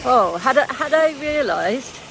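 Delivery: teeth chattering, shivering voice; shaking with cold. Real, not acted. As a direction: keep shivering as you talk. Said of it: "I literally can't stop shaking".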